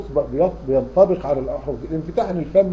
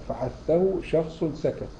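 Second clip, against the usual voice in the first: slow mnemonic recital; 4 dB quieter, much slower than usual. Shown as a demonstration. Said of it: "reciting the mnemonic".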